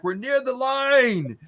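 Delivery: high, drawn-out battle yell; yelling back. Acted. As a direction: yell it long across the gunfire. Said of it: "Memorous kind of yells back".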